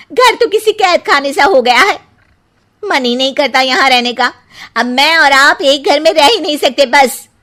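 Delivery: angry. Acted. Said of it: "शुचि को ये सुनकर कुछ ज्यादा ही गुस्सा आ जाता है।".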